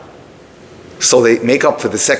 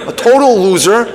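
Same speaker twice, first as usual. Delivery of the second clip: higher, louder mock outburst on "total loser"; louder venting; 6 semitones higher than usual. Daughter scolding her father, outrage rising. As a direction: hit "total" harder the second time. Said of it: "she lets him have it".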